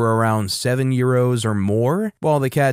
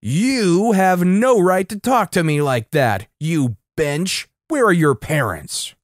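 high, drawn-out mock yell; hammed-up indignant yell, slowing the words; 4 semitones higher, slower than usual. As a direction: yell it like an outraged caricature. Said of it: "Yelling once again".

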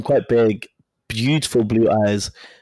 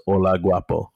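lightly imitating his deep voice, lower; 4 semitones lower than usual. Imitating the crush's greeting to the storyteller, deep voice. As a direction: say it low, as a mild impression of a big man. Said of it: "he's got this deep voice".

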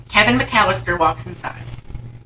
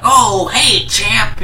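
lightly voiced dad greeting, slightly raised; Ted Danson; 4 semitones higher, 3 dB louder, much slower than usual. Movie dad greets his son, lightly imitated greeting. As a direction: imitate an awkward father's hello a little. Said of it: "then Ted Danson's like".

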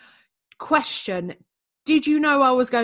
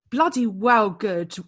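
slow, slipping into East London; accidental East London accent; slower than usual. Real, not acted. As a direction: drop into a cockney twang on bloody well good. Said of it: "you've gone proper East London".

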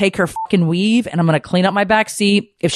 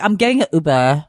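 slurred daughter. Retold or imitated. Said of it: "We're even clearer".

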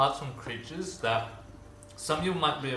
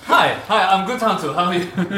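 loud goofy character voice; 5 semitones higher, 11 dB louder than usual. Acted. GM greets as new character.

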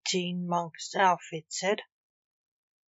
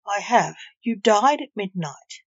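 sharp as a blade, a bit louder; sharp, curt; 5 dB louder than usual. Acted. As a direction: clip it cold and final. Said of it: "as sharply as a blade".

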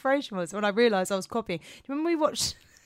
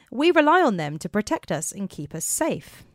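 measured scripted podcast narration; story narration; 4 semitones higher than usual. Acted. Host opening police stories for listeners, story narration. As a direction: read it out as the story's introduction.

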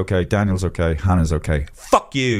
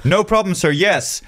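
mock scam agent; 7 semitones higher than usual. Mocking the fake travel agent on the phone, high polite voice. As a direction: play the smooth call-centre scammer. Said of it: "I'm not gonna do the accent".

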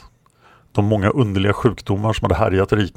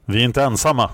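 exclaiming; 4 semitones higher, faster than usual. Acted. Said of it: "utbrast han".

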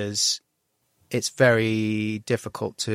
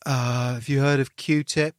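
put-on slow, condescending teen voice; patronizing teen; 2 semitones higher, slower than usual. Son mocking his dad's music taste, slow and patronizing. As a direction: talk down like a smug teenager. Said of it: "And then you're like".

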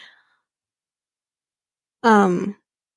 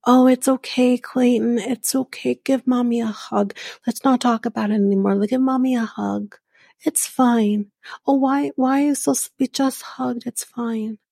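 lightly voiced cooing mother, a touch higher; a hint of a coaxing mom, soothing and pushy; imitating a mom; 3 semitones higher than usual. Reactor mimics the groom's mom hushing her son, mock coaxing. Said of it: "his mom has done shit like this".

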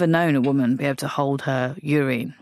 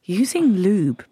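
voiceover voice; 2 semitones higher, much slower than usual. Pretend. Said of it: "Why have you done that weird robot voice".

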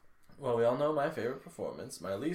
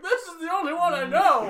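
high, pitched-up complaint; exasperated high exclaim; 5 dB louder than usual. Retold or imitated. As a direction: protest it in a squeaky high voice. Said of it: "I'm like".

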